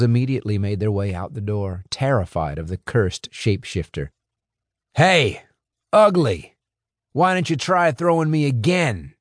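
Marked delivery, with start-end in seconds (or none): 4.9-9.1 high, loud snarling taunt at his foe; growling taunt. A narrator's reading. Mac taunts Doublehead in the bar, growling. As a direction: spit the challenge out like a beast. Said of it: "Mac said, growling".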